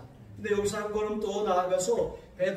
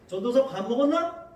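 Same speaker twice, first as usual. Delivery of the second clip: louder and higher blunt Gangwon greeting; curt Gangwon-style greeting; Gangwon dialect; 5 semitones higher, 6 dB louder than usual. Retold or imitated. Gangwon elder greeting the young pastor, blunt Gangwon dialect. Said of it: "이렇게 말을 해요".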